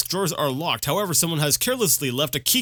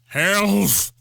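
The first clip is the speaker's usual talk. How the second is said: mock shout; 5 semitones higher, 4 dB louder than usual. Mock battle cry.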